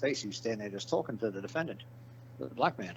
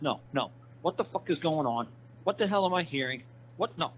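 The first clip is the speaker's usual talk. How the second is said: mock angry cop; 5 semitones higher than usual. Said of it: "That cop got so mad".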